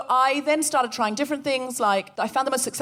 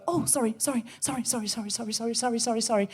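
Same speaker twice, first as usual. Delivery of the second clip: softer, cringing stream of "sorry"; timid apologising; 5 dB quieter, faster than usual. Retold or imitated. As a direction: shrink away as you apologise. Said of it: "If you're always going".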